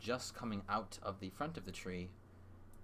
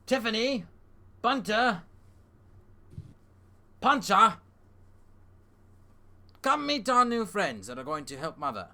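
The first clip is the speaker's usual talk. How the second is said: higher, quick, eager rabbit host; Humphrey voice; 9 semitones higher, 10 dB louder than usual. Acted. Humphrey calling his family to meet the guests, raised and eager. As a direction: rattle off the family names with a call.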